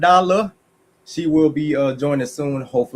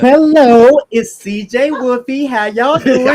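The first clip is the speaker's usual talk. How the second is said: high greeting; 7 semitones higher, 6 dB louder than usual. Acted. Wife's playful high greeting.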